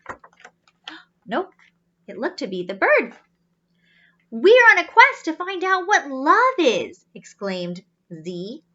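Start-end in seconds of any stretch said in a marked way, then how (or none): 4.3-7.0 excited robot. Acted. Z exclaims.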